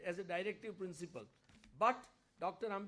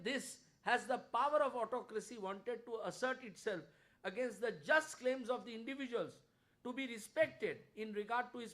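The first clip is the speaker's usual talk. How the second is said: raised, declamatory reading of a speech; oratorical quote reading; 4 dB louder than usual. A narrator's reading. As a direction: read it out like an impassioned parliamentary orator. Reads out Shah's speech with oratorical force.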